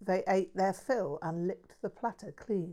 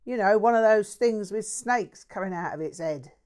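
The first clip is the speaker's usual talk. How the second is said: a mouthy London bloke bragging; lightly voiced cheeky Cockney; Cockney mate; 3 semitones higher, 6 dB louder than usual. Jack's rant about wife.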